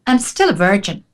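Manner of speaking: imitating a Scottish woman's accent; lightly put-on Scottish accent. Scottish woman confessing in a restaurant, Scottish accent. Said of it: "with her Scottish accent".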